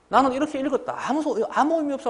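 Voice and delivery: high-pitched mimicry of a student; put-on high student voice; mock student. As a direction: imitate a self-absorbed student, pitched well up. Teacher mimics student's personal reading.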